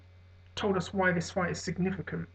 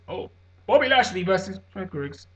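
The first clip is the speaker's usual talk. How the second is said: mock announcer; 7 dB louder than usual. Mocking bland fight announcement.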